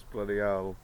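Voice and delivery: loud, hammed-up British exclamation; British accent. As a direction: bark it out like a cartoon Brit. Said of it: "I can speak to you with my accent".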